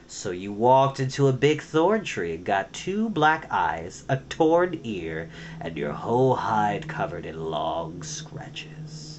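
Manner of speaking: sarcastic, menacing. Acted. Clooney mocks the lie.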